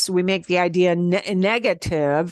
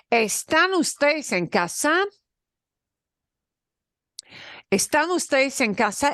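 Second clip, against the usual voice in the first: modelled question; 6 semitones higher than usual. Shown as a demonstration. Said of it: "teacher models the question".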